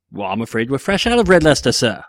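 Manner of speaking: lightly voiced cheese shop clerk; quick, regretful word to a customer, lightly acted; apologetic shopkeeper. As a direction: play a polite shopkeeper turning someone down. Acting out cheese shop sketch.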